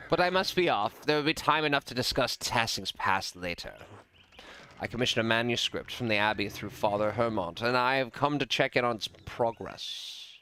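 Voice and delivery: brisk, genteel nobleman; a hint of aristocratic self-importance; lightly voiced lord. Voices the lord taking leave.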